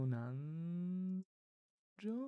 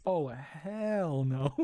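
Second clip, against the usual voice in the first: stunned disbelief; 7 dB louder, much slower than usual. Real, not acted. Reacts to tongue twister.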